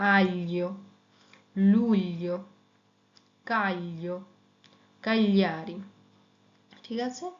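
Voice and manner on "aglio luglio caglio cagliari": Italian gli examples. Shown as a demonstration. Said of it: "ই থাকার কারণে হবে".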